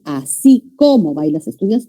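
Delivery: "como" said with emphasis as if it carried a tilde; stress on como. Shown as a demonstration. Teacher showing students the wrong accented reading, stress on "como". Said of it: "se pronuncia con énfasis".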